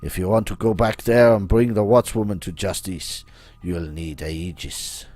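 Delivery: put-on theatrical French-accented schemer; Baron's French-style accent. Voices the Baron in a game.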